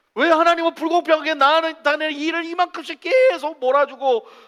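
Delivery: high, loud, aggrieved grumbling tone. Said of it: "그래서 늘 불만이야".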